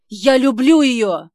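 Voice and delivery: медленно, выше и очень громко; выкрикнуть признание; отчаянный крик. Acted. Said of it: "взрывается Ник". (Ник выкрикивает признание в любви)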